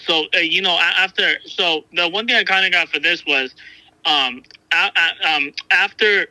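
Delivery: halting, repeated false starts; stuttering. Real, not acted. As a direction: stumble and restart the words. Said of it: "I keep stuttering".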